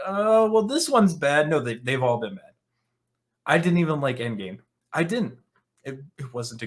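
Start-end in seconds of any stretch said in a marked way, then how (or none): 0.1-1.5 high, sing-song mock admission; mocking the critics. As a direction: sneer it like a critic finally caving. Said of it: "they're like".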